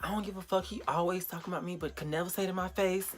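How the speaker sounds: mock offended girl; imitated complaint. Quotes the girl complaining about her.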